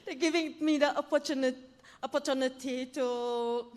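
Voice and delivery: nervous laugh, rushing the words; hurried, nervous and laughing; stage fright. Real, not acted. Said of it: "I'm a bit nervous".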